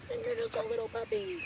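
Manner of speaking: squeaky pet talk, high throughout. Real, not acted. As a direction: coo to a tiny puppy. Talking to the puppy.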